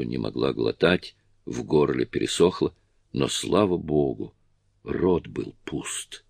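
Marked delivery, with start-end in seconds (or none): none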